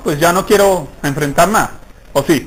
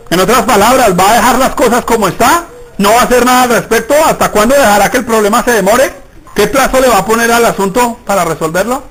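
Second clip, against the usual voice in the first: challenging preaching; 3 semitones higher than usual. Acted. Preacher confronting the church about inaction, pressing. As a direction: press the listeners with each question.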